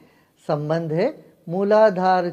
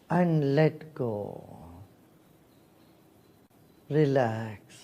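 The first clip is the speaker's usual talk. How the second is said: guided meditation. Real, not acted. (ध्यान कराती शांत, ठहरी हुई आवाज़)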